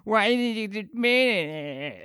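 high, slow, whining voice; mock him as a sulky whiner; high whiny sulk, dragged out slowly; whiny Tony Hawk. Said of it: "the voice he does for Tony Hawk is just like".

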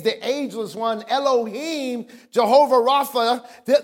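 measured pulpit roll call of titles; impassioned preaching. Real, not acted. Preacher lists God's names to the congregation, impassioned preaching. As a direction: build the list toward a drawn-out finish.

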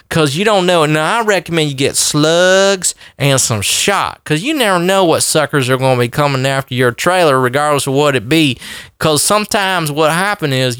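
put-on Southern cracker accent. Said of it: "put on my cracker voice".

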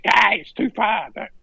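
high retold cry of objection; acted protest.

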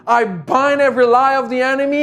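closing prayer. Acted. Pastor praying over his listeners in a rising, then hushed prayer. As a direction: pray it with rising conviction, then ease into a hush.

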